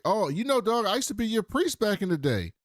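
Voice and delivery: hammed-up old man calling out to Henry; imitating the old priest. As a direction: play the old priest reminding him he was there. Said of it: "the older dude at the table is like".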